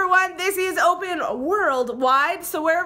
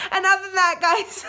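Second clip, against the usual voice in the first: laughing; 4 semitones higher than usual. Real, not acted. Laughing at end of video.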